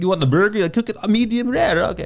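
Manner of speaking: very high-pitched, put-on Eastern European accent. Retelling what hosts at a party said about burgers: Despicable Me accent. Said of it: "talk like this, like, uh, Despicable Me".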